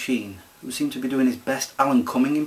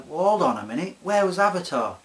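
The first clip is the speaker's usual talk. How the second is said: higher-pitched mock protest; objecting viewer; 6 semitones higher than usual. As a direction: imitate an indignant commenter, pitch climbing. Voices imagined objecting viewers.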